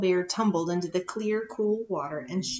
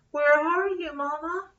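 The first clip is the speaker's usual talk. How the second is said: calling out; 7 semitones higher, 4 dB louder than usual. Acted. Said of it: "Small Bear called".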